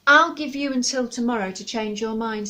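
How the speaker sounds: a hint of calm owl. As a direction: state the deadline evenly. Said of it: "said Luna calmly".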